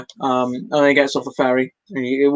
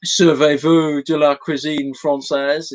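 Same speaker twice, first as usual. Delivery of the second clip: halting phrasebook French; slower than usual. Retold or imitated. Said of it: "he picks up his phrase book".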